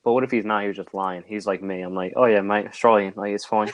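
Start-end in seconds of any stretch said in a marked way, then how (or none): 2.2-3.7 lightly put-on Australian accent; mock Australian accent. Bluffing as a fake Australian cop, mild Australian accent. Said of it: "I'm Australian".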